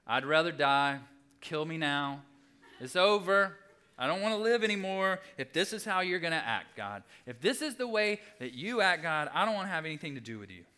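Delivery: hammed-up angry ultimatum to God; petulant outburst. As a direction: declare it over and done with, loudly. Acting out Jonah's outburst to God.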